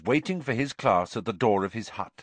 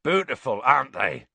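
raised, proud delight; happy roar; 3 semitones higher, 5 dB louder than usual. A narrator's reading. Hagrid admiring his hippogriffs, happily loud. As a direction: show them off with delight. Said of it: "roared happily".

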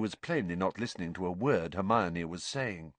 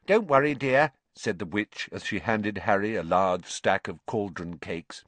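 put-on kindly old witch; 3 dB louder than usual. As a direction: reassure them kindly.

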